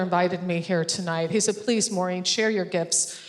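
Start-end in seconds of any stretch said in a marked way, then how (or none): 1.6-3.2 sarcastic. Retold or imitated. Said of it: "And that's called sarcasm".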